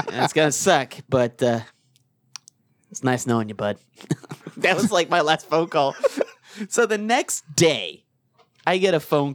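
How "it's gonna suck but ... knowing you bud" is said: halting, resigned farewell, sighing; low, resigned mock condolence; mock grief. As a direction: deliver a hammed-up eulogy with long pauses. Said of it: "all the stages of grief".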